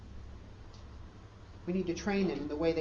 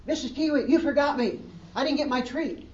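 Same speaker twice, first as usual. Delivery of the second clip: a hint of a whiny little girl, higher and louder; whiny child; 8 semitones higher, 7 dB louder than usual. Little girl whining to her teacher about a forgotten treat, higher and louder. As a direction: play the left-out kid pleading for her treat.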